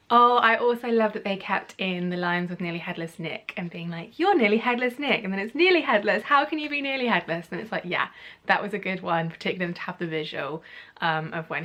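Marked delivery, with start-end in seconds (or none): 4.2-5.2 lightly acted exclamation, higher pitch; quoted recognition. Student recognising the house ghost, lightly acted surprise. Acting out film dialogue. 5.6-7.5 higher-pitched imitation of a baffled question; mock incredulity. Student questioning the ghost's name, acted incredulity. Acting out puzzled question from film.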